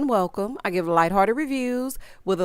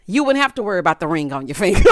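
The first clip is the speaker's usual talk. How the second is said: laughing; 4 semitones lower, faster than usual. Real, not acted. Joke with laughter.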